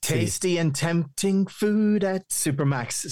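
slow ad-jingle delivery; jingle read. Retold or imitated. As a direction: recite it like a radio jingle. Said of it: "I know the jingle".

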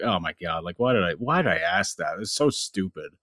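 soft, low self-scolding under the breath; a quiet mock groan of embarrassment; muttering at himself. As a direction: scold yourself quietly, half to yourself. Berating himself after a dumb question.

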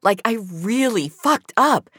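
loud, insistent confession; forceful. A narrator's reading. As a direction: make him hear how bad it is. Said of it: "she said more forcefully".

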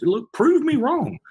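high, slow, challenging drawl; cocky dare. Acted. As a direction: throw down the challenge, stretched out. Daring listeners to test bars.

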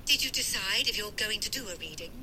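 phone voice. Acted. Mum on the phone.

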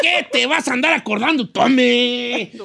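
singsong Michoacán ranch drawl; lightly exaggerated Michoacán accent, endings stretched. Ranch vato teasing his returning friend, Michoacán accent. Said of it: "Así hablamos".

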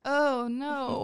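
pained around sour candy; wincing with candy in mouth; eating sour candy. Real, not acted.

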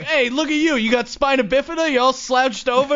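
jab at him like a roasting comic; mock Jeff Ross roast. Comic retelling how the roast comic mocked him, hammed-up heckle. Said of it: "then he's just like".

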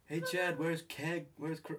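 loud, high American party holler; American teenager. Acted. Asking Chad about the keg, loud American teen. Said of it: "I should sound like an American teenager".

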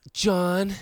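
high, bored, whiny leader voice; Elizabeth Weir whining. Retold or imitated. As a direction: whine like a bored commander. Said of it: "Elizabeth Weir ... she was like".

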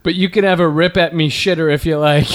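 lightly hammed-up Irish-Aussie accent; put-on Aussie-Irish accent for a bawdy announcement; mock drunk Irish-Australian accent. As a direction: do an Irishwoman attempting Crocodile Dundee. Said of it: "drunk Irish woman trying to sound like".

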